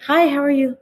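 high, bright-pitched hello; a chirpy mock hello; cheery greeting. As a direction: sing out a friendly hi. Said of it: "Why is Mister Breathy here?".

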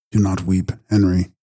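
low, restrained consolation; understated, sober comforting; consoling. A narrator's reading. Brother consoles weeping brother.

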